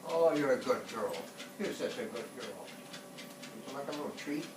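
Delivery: fond doggy praise; talking to a dog. Real, not acted. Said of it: "praising the dog".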